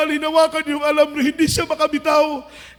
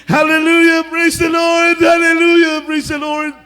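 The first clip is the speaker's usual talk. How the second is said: repeated calls of praise, lightly raised; mother calling hallelujah over and over, half-voiced; retold crying out; 3 dB louder than usual. Kneeling mother crying out to God for her son, mock calling out. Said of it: "Sigaw siya ng sigaw".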